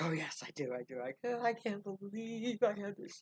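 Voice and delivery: high, loud, breathless delight; excited girl. Acted. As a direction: squeal with disbelief and joy. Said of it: "She was so excited".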